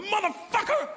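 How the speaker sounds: high, slow mock furious yell; angry child. Five-year-old daughter scolding her dad, hammed-up high shout. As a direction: play the outraged little girl, shouting way up high.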